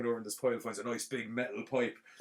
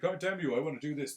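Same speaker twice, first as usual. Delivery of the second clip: higher-pitched mock defiance; defiant retort; 5 semitones higher than usual. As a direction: play an indignant comeback, lightly. Retelling the stunt woman's defiant reply.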